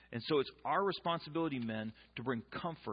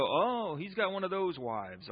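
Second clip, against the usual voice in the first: mock surprise; 4 semitones higher, 5 dB louder, slower than usual. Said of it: "you'll go".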